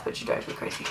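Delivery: hushed, breathy whisper. Real, not acted. Mom whispering about her baby while doing makeup, whispered.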